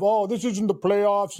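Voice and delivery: slow, light mock Finnish accent; a hint of a Finnish player whining; slow mock Finnish accent, whiny player. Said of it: "Was that your Finnish accent?".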